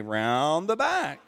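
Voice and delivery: put-on slow demo line, said for the kids to copy; slow, blunt demo of the brush-off; curt innkeeper line for kids to repeat. Shown as a demonstration. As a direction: model it slowly so they echo it.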